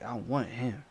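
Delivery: quiet fixated murmur; obsessed whisper-like repeat; lightly voiced attacker; creepy soft. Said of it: "They like".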